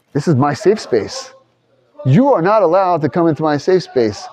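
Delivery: mock entitled person. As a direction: play the self-centred rights claimer. Voicing an egotistical rights-claimer.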